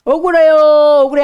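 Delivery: high, loud mock cry of injustice; aggrieved. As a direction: protest the unfairness. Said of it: "하면서 그것도 울어요".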